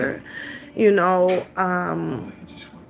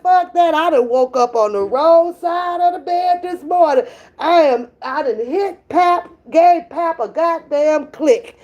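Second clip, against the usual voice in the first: grumpy sleeper; 3 semitones higher than usual. Retold or imitated. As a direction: grumble it like she's storming back to bed. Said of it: "she was like".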